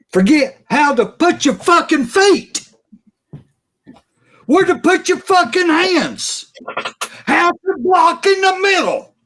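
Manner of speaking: genuinely furious fan venting; real angry rant. Real, not acted. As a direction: let the frustration boil over. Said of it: "I'm fucking pissed off".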